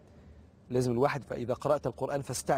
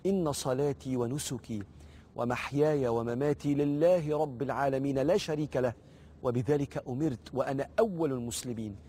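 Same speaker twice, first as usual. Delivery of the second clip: slow, measured recital of a prayer; measured devotional recitation. Shown as a demonstration. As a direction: recite the supplication slowly, phrase by phrase. Recites the opening supplication.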